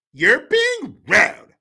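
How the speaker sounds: slow mock scold. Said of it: "she says".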